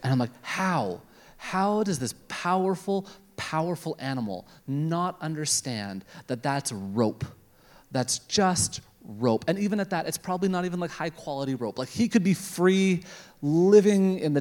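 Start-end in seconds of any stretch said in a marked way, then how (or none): 0.4-9.5 annoyed disbelief. Retold or imitated. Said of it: "I was so annoyed".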